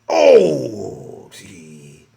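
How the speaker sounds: drawn-out, slow whining complaint; mocking whiny shopper. Comedian mocking an anti-mask shopper, slow whine. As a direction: whine like a put-upon anti-masker.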